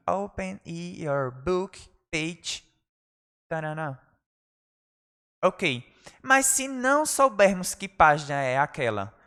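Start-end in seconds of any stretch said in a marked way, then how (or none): 0.1-4.0 slow soft model. Shown as a demonstration. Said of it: "Repitam aí".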